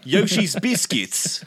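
slow, drawn-out mock British accent; put-on British accent. American host translating cookie for British guest, British accent. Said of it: "I hope that accent wasn't offensive".

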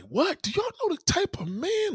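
high mock uncle voice; teasing impression of the uncles; uncles warning. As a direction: play the wise uncle, way up high.

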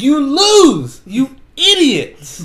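high, loud, drawn-out villain taunt; mock gloating yell. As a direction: crow it slowly as the winning villain. Plays villain's gloating reveal.

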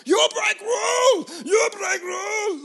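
slow, high, loud broken-English yelling; imitated angry patrol. Patrolmen scolding rule breakers, slow loud broken-English shout. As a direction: shout it slowly, word by word, like an angry foreign patroller. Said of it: "They come at cloud ten".

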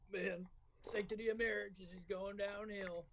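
a hint of a Southern US accent as a grumbling father; mild Southern accent, half-joking dad impression. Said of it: "That was a great fucking accent".

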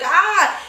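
high mock cry of pain; imitated crying wail. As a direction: wail like a kid who just got hit.

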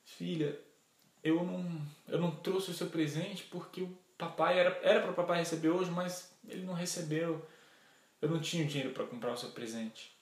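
softly spoken, halting apology; sad father. Acted. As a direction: break bad news gently to a daughter. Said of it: "E ele triste falou".

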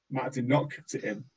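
lightly imitated deadpan narrator aside; a hint of dry TV narration; Arrested Development voice. Imagining Matt's edit, light Arrested Development narrator voice. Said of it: "doing an Arrested Development voice going".

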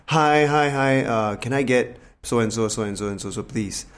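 mildly courteous, easy request to a stallholder; polite order. Shown as a demonstration. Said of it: "it's a tone as well, right".

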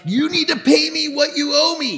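loud, high-pitched angry demand. Acted. Servant confronts the man who owes him, loudly demanding. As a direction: play the creditor demanding his money. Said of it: "he demanded".

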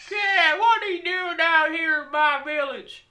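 high, slow, exaggerated African accent; hammed-up African villager accent; mock African accent. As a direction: draw it out in a put-on African accent. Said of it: "is that the accent they have?".

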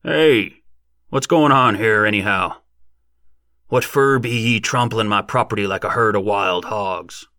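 loud rustic farmer, angry; indignant backwoods yell, loudest at the start; irate shout. A narrator's reading. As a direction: holler at trespassers in a country twang. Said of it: "An irate voice shouted".

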